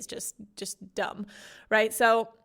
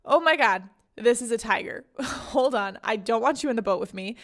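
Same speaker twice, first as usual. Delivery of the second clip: panic; 3 dB louder than usual. Retold or imitated. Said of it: "he's like".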